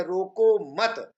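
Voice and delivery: रोको मत joined and drawn out, stopping on मत; pause after मत. Shown as a demonstration. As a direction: say रोको मत slowly as one unit, then stop. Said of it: "के बाद लगा दिया". (मत के बाद विराम, धीरे-धीरे)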